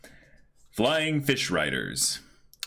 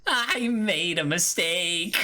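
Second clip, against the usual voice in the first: mock despair; 3 semitones higher, slower than usual. Reading One Piece with voices.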